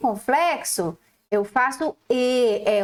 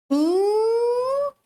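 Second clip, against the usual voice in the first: sounding out; much slower than usual. Shown as a demonstration. Teacher sounding out "ingle" for the class.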